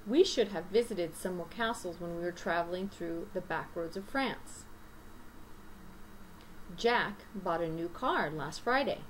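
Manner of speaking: natural read-aloud of sample sentences; native reading demo. Shown as a demonstration. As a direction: stress the content words, glide over the rest. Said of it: "how a native person sounds when they're reading".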